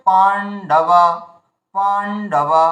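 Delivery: পাণ্ডবা split by a gap after the first syllable; pause inside word. Shown as a demonstration. Teacher shows learners the air gap in পাণ্ডবা, pausing mid-word. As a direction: hold the start of পাণ্ডবা, stop, then finish. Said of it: "হাওয়ার gap দিচ্ছি দেখুন, থেমে যাচ্ছি".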